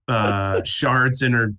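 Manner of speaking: ordinary talk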